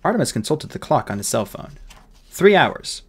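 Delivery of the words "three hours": higher, louder, decisive answer; boy's answer. Acted. Boy reporting the time to the fairy, firm and high. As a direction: give the time firmly, pitch up.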